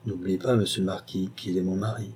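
douce moquerie, plus bas; légèrement moqueuse. Acted. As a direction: une pointe de raillerie tranquille. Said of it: "d'une voix légèrement moqueuse". (Clémence taquine le marquis, légèrement moqueuse)

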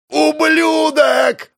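high, slow, drawn-out roar; enraged yell. Acted. Last bandit roars at the narrator before charging, yelling. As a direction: roar it in rage. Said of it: "заорал он".

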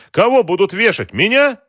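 baffled disbelief. A narrator's reading. Boss thinking he'll be hanged, baffled. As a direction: climb to an incredulous peak. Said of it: "не понял Георгий".

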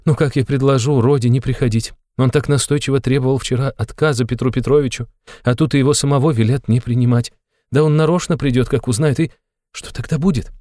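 put-on high, fretful old mother's voice; anxious mother voice, pitched high. A narrator's reading.

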